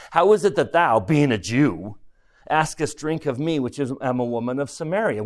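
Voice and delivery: lightly scornful, looking down on him; a hint of a contemptuous retort; a little disdain. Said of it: "she probably said that with a little disdain".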